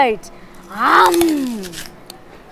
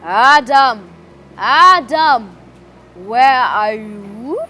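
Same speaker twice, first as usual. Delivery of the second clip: louder, calling Adam across the garden; 4 dB louder, slower than usual. Acted. God calls out for hiding Adam, loudly. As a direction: summon him firmly. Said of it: "God then called out".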